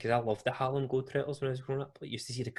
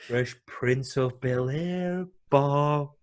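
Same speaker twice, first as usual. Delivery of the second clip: slow, drawn-out announcer call; hammed-up commentator tease; announcer ribbing; 2 semitones higher, 3 dB louder, much slower than usual. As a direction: stretch it like a mocking arena announcer.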